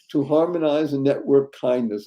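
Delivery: slow, spelled-out acronym reading; slow, deliberate. Shown as a demonstration. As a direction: lay out each word slowly. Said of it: "stands for".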